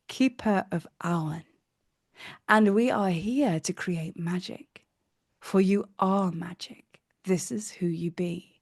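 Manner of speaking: hushed, unhurried goddess whisper. Acted. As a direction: welcome the traveller as a gentle goddess, in a whisper. Goddess Ceridwen speaks.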